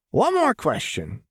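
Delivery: high, bright announcement; Jinx, chirpy. A narrator's reading. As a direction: pitch it high and eager. Jinx turns back brightly.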